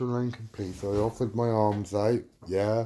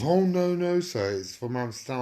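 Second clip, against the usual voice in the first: high, loud opening that eases off; mimicked protest, pitched up at the start; mock protest; 4 semitones higher, 3 dB louder than usual. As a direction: imitate a seller insisting to a customer. Acted seller protesting to customer.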